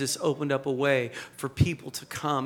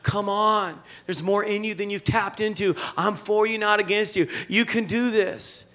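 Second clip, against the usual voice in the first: lightly voiced cheering-on, pitched up; encouraging Heavenly Father; 5 semitones higher than usual. God urging on doubting people, lightly acted encouragement. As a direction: urge them on like a coaching father. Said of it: "our Heavenly Father is saying".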